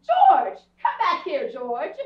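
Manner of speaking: yelling at George to return; calling out. Real, not acted. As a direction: shout him back, furious. Escort walks away.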